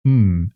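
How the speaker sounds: "m" said as a held hum like in "me"; "m" as the first sound of "me". Shown as a demonstration. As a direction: hum "m" slowly. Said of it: "as in me".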